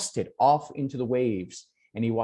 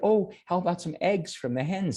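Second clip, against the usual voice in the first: higher, bright with relief; a healed mother telling her son she feels better, in a higher voice; revived mother; 5 semitones higher, faster than usual. Acted. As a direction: sound suddenly alive and well again. Mother asks for eggs.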